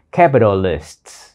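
capitalists whispered slowly with the American flapped t; teacher whispering the American pronunciation; whispered model word. Shown as a demonstration. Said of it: "Còn tiếng Mỹ đọc là".

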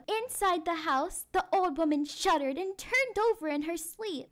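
measured, suspenseful storytelling; spooky story narration. A narrator's reading. Teacher reads the eerie midnight part to class, suspenseful storytelling. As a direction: build the midnight suspense for children.

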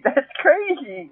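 laughing. Real, not acted. Vlogger laughing at her own cat fantasy, giggling. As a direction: giggle it out, amused at yourself. Catching herself mid-rant.

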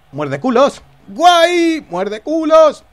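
loud whooping shout, way up high; excited bellowed taunt; battle cry. Real, not acted. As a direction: yell it like a war cry.

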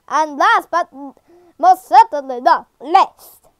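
badly faked ceremonial host; emphatic, halting attempt at an announcer; Albert. Game character introducing the last hero, lightly voiced Albert. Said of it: "I'm bad at impressions".

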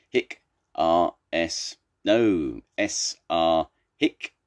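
slow backwards alphabet broken by hiccups; hiccuping recital. Acted. Zebra tries Tiger's alphabet cure, reciting slowly with hiccups. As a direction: recite haltingly, tripped by hiccups and corrections. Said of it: "closed his eyes, and said".

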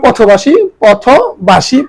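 পথবাসী said as "po-tho-bashi"; teacher's careful পথবাসী; model pronunciation. Shown as a demonstration. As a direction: sound out পথবাসী with an o after th. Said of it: "উচ্চারণ করলাম".

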